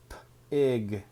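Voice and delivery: "P-ig" split after the P; sounded out. Shown as a demonstration. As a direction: break "P-ig" into onset and rime. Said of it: "sounding out pig".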